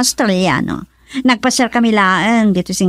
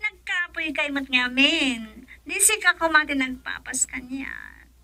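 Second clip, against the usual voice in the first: whisper; 10 dB quieter than usual. Acted. Whispered intimate reply.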